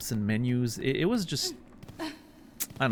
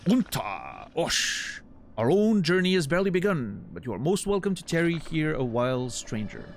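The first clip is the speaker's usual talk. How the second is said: higher, theatrical flea showman; grandiose flea circus showman; 6 semitones higher than usual. Acted. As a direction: boom it out like a ringmaster. Voices flea master dialogue.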